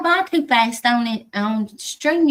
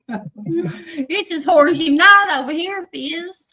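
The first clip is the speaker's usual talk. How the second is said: laughing; 8 semitones higher, 3 dB louder, slower than usual. Real, not acted. Laughing at a chat joke.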